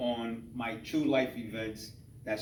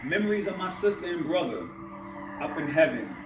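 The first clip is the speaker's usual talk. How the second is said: measured spoken-word delivery with pauses between phrases; spoken-word poem in rhythmic phrases; poetry recital. Acted. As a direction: perform the poem, lifting each refrain then letting the phrase fall. Reads his poem aloud.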